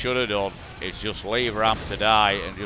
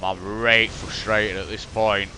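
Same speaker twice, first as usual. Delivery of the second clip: broad Yorkshire; slower than usual. Real, not acted. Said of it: "Sorry, full Yorkshire".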